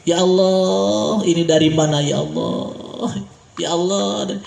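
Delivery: mild mock weeping, long-held "Allah"; retold tearful prayer. Preacher retells Siddiq crying over plentiful food, mildly tearful. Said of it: "sering nangis ya".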